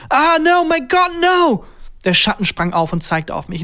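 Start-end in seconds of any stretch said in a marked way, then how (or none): 0.1-1.6 high, loud terrified shout; panicked scream. A narrator's reading. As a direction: cry out in sheer horror from the back seats. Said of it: "Dann plötzlich ein Schrei". (panischer Angstschrei)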